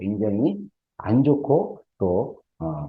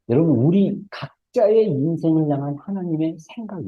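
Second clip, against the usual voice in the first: raised, earnest preacher cadence; emphatic preaching; 7 semitones higher than usual. Real, not acted. Preacher assuring congregation of God's thoughts, emphatic preaching. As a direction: press it on the listeners in higher pitch.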